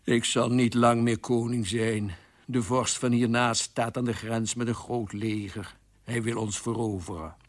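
glum, resigned royal voice; sorrowful. Acted. King tells queen of the invasion, mildly sorrowful. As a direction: say it mournfully, without any fight. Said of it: "keek haar treurig aan en zei".

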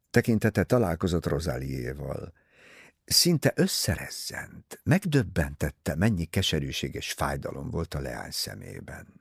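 ordinary delivery, nothing marked

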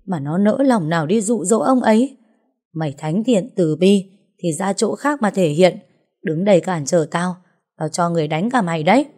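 lightly voiced indignant rant; vindictive jealous wife. Wife warning off the rival's defender, mildly acted indignant threat. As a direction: justify the beating, then threaten.

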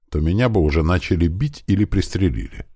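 ordinary delivery

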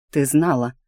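"Ты знала" as a statement, no questioning rise; stating, not asking. A narrator's reading. Husband confronting his wife, "Ты знала" stated as fact. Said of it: "не спрашивая, утверждая, произнёс муженёк".

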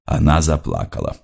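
usual speaking voice

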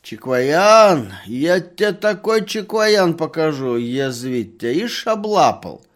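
loud, high scolding crone; angry lisping old woman. A narrator's reading. Old woman scolding the merchant who grabbed her, loud and high. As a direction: scold him like a cranky lisping granny. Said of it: "старуха всё ещё шепелявила".

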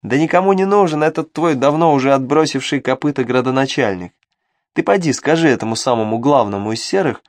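scheming little devil voice; sly imp voice. Acted. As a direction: tempt him, sly and sneaky. Imp persuading.

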